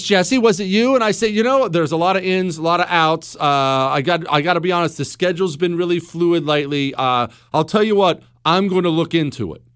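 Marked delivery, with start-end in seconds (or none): 0.0-0.9 lightly voiced wife, pitched up; higher, mildly accusing question. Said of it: "And she says". 1.3-9.6 mock stalling, dodging the question; evasive husband. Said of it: "That sounds like, that sounds like, uh, me".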